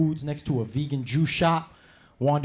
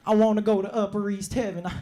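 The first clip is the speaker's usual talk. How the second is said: whiny slave owner; 4 semitones higher than usual. Retold or imitated. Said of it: "And he's like".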